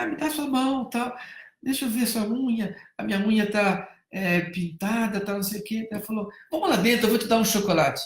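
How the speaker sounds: lightly voiced mom bribing a child; coaxing mother. Boy's mother coaxing the girl.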